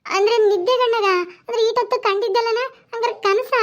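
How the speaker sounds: disbelief. Acted. Realising it was a dream.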